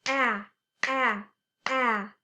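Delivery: "Ah" as a clear open short a; short a sound. Shown as a demonstration. Teacher modeling the short a sound to kids. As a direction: sound out the letter a slowly.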